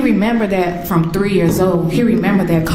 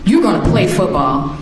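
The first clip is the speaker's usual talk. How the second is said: high, fast, no-nonsense talking-to; firm scolding; 6 semitones higher, faster than usual. Retold or imitated. Mother scolding her crying son at football practice, fast and higher. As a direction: tell him off and push him on.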